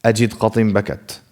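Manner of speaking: "Ajid, qatim, bakat." in slow motion; slow motion demo. Shown as a demonstration. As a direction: draw each word out slowly. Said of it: "slow motion version of these".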